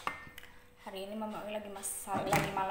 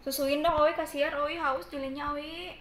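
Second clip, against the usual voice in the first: pleading with the cat; 5 semitones higher, 5 dB louder than usual. Real, not acted. Pleading with cat to nurse kitten.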